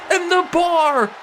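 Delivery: fast, rising wrestling commentary; live play-by-play. Acted. Commentator calling the tag match for viewers, live play-by-play. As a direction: call every move as it happens.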